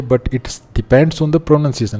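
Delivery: very slow, deliberate reading of the line; reading the board slowly. Shown as a demonstration. Teacher reading the board line to students, very slowly. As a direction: read the written line word by word for the class. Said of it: "यहाँ पे line लिखी है".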